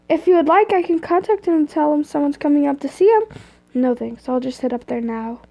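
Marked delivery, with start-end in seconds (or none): 0.1-3.2 lightly voiced receptionist, a little higher; helpful secretary voice. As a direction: offer help like a front-desk receptionist. Secretary's helpful dialogue read aloud.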